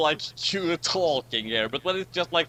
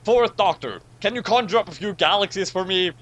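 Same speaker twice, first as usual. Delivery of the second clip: commanding; 3 semitones higher, 5 dB louder than usual. Acted. Picard commanding in role.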